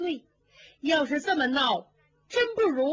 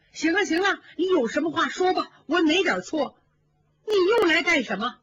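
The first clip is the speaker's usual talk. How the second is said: tearful snapping; 6 semitones higher, 4 dB louder than usual. Acted. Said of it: "更哭了".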